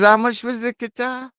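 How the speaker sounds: laughing. Retold or imitated. Retelling wife's reaction, laughing.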